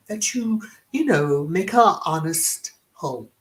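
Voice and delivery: slow mock English accent, half whispered; imitating the Queen in a mock English accent. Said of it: "envisioned this in an English accent".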